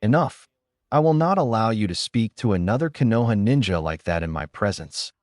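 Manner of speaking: mild stern rebuke; understated angry command. Acted. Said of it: "Sarutobi said angrily".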